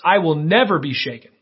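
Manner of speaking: a touch of swagger; mildly cocky, understated declaration; arrogant. Acted.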